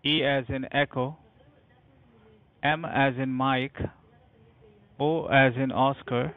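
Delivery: spelling it out letter by letter; dictating. Real, not acted. Agent spelling with phonetic alphabet.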